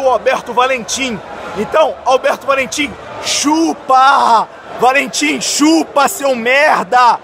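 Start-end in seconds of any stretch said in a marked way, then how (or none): 1.6-7.2 angry taunting. Real, not acted. Fan taunting the rival coach.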